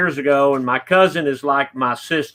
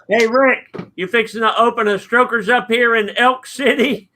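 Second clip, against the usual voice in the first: high-pitched mock holler; retold yell; 7 semitones higher than usual. Man in a pickup to a passer-by, hollering. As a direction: call out as if across the street. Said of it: "he yelled out".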